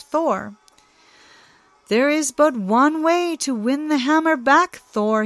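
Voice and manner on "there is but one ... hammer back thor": higher, sly trickster; lightly voiced cunning god; Loki's scheme. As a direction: coax Thor into the plan. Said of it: "he said".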